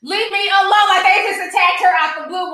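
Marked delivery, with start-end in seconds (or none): 0.0-0.9 slow, high, drawn-out leave me alone; mocking victim whine. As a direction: mimic her playing the victim. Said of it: "play victim and say".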